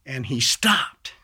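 usual speaking voice

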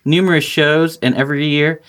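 even, practised announcer-style read; scripted promo read. Acted. Host introducing Rooster Teeth to listeners, scripted promo read. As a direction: read it out like sponsor copy.

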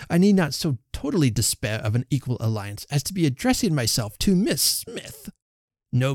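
huffy, offended suitor; a touch of wounded pride; affronted. Acted. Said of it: "affronted in his turn".

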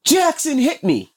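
put-on high, slow childish complaint; little girl tattling. Dad voicing his daughter accusing her brother. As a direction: drag it out like a hurt little girl.

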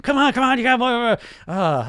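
high, loud trainer badgering a client; mock drill the client on, pushy and fast-talking; personal trainer. Fitness trainer cracking the whip at clients, mock pushy shout. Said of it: "that personal trainer voice".

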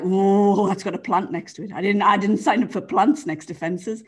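a spooked horse eyeing a plant by the fence; horse's voice. Pretend. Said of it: "I could be the horses commentator".

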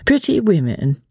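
high, musing lady's voice; meditative. A narrator's reading. Lady reflecting on life in England, meditative and high. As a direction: muse aloud, pitched high. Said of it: "she added meditatively".

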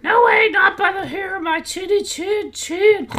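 very high, loud squealing piggy refusal; squeaky pig. Acted. Pig refusing the wolf, squealing high and loud. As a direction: squeal it out like a frightened little pig.

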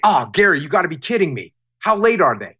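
mild shared frustration, on his side; a touch of mock outrage in solidarity; a little bit mad. Shown as a demonstration. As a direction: sound mildly annoyed along with him. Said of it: "he sees that I'm a little bit mad too".

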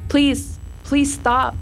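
pleading with a touch of a yell; mild yelled plea. A narrator's reading. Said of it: "I yelled at the sun".

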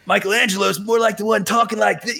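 lightly voiced cartoon surfer turtle; Michelangelo voice. Shown as a demonstration. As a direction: slip into the party-dude voice briefly. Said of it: "a little harsher on the vocal cords".

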